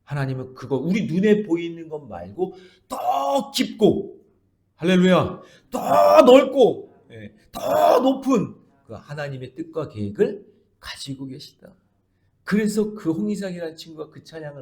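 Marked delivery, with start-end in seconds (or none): 0.8-8.5 much higher, louder, very slow; climactic preaching cry. Acted. Pastor crying out God's depth to the congregation, slow and loud. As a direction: stretch out the climax.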